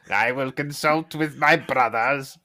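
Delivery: high, slow sneer; sneering Mephiston. Retold or imitated. Friend imitates the audiobook Mephiston's weird sneer. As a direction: draw it out with a villain's sneer. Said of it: "weird sneer".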